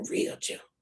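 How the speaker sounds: unvoiced soft real gentle; real gentle, whispered; whispered gently. Shown as a demonstration. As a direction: breathe real gentle almost silently. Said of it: "you're gonna be just gently".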